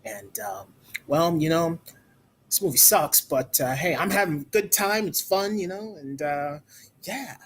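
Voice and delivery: a half-hearted, lazy celebrity impersonation; bad Tom Cruise impression. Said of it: "It's a terrible Tom Cruise impersonation".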